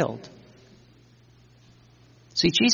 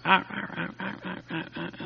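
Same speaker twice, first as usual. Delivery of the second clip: imitating dog barks; 4 semitones higher, 8 dB quieter, faster than usual. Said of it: "you hear a dog barking. It's going".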